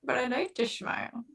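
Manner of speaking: cheeks squished, muffled words. Pretend. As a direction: say it with cheeks squeezed in. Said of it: "Squish 'em".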